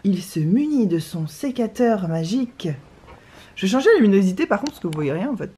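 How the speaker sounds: slow, grand nature-show narrator; mock documentary narration. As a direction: narrate him like a wildlife film. Mock-narrates boyfriend cutting roses.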